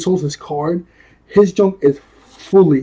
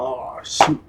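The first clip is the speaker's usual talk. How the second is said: disappointed; 3 semitones lower, 7 dB quieter than usual. Retold or imitated. Reacting to the character dying.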